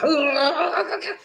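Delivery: high, drawn-out grossed-out squeal; skin-crawling shudder noise. Acted. Host hearing about scabs in the mouth, grossed-out squeal. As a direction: shudder out loud in disgust. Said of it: "make my skin crawl now".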